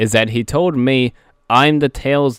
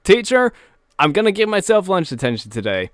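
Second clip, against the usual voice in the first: cheerful student; faster than usual. Retold or imitated. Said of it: "see a guy run into a classroom and say".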